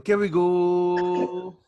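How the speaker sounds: very slow, loud laughing drawl; laughing mock title. Shown as a demonstration. Co-host laughing while mocking the song title. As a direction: stretch it out through laughter. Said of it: "mocking the song title".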